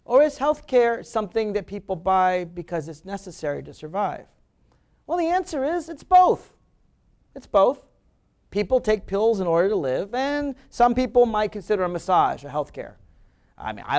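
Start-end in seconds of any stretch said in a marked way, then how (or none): 5.1-7.8 emphatic. Real, not acted. Emphatic answer to own question.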